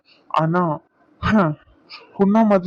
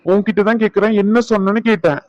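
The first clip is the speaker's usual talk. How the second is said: higher, sharp demand to repeat it; sharp challenge; 4 semitones higher than usual. Acted. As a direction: challenge her, daring her to say it again. Husband challenging wife's threat. (கூர்மையான கோபக் கேள்வி)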